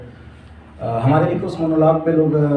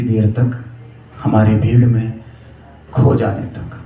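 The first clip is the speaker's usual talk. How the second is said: measured recital with long, weighty pauses; poetic monologue recitation. Acted. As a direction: recite it as a love poem, line by line.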